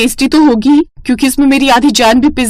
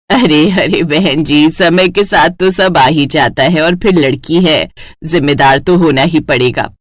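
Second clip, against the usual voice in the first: lower, measured matchmaking mothers; older women's voices; 5 semitones lower than usual. Acted. Two mothers arrange a match.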